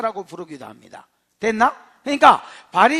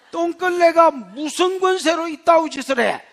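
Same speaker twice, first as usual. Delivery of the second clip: higher, sneering demand; scornful question; 4 semitones higher than usual. Acted. Council scorning the lowly apostles, sneering. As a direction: spit out the insult. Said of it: "이렇게 이야기하는 겁니다".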